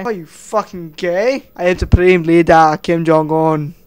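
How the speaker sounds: Kim Jong-un impression. Kim Jong-un booms at a citizen, outraged. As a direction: boom it like an offended tyrant. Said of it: "Kim Jong-un would say".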